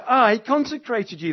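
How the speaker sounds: "I" proclaimed high and loud; stress on I. Shown as a demonstration. God speaking to the prophet, strong stress on I. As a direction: declare it, punching "I". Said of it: "the emphasis is on God".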